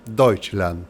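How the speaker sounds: Deutschland said the German way, doitch-lan; German pronunciation. Shown as a demonstration. Teacher showing students how Germans name their country, German pronunciation. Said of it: "Le van a decir de una manera".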